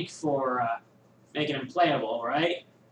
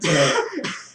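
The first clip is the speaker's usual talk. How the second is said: short real laugh; 4 dB louder than usual. Real, not acted. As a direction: burst out laughing. Laughs at own joke.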